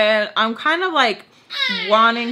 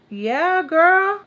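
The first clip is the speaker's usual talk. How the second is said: excited; 8 semitones higher, 4 dB louder than usual. Real, not acted. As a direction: squeal it at a friend. Exclaiming to audience.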